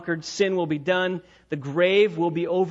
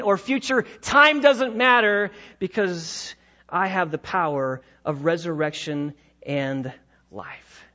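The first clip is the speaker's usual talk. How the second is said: voicing Jesus. Preacher voicing Jesus reassuring Martha, building then fading. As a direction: proclaim the power, then let it sink.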